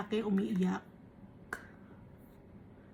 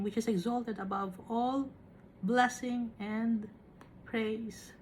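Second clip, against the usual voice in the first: slow, solemn Bible reading; scripture reading. Acted. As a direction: read the verses slowly and reverently. Preacher reads scripture aloud.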